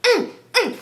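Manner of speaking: squealing, laughing yell; high shriek. Retold or imitated.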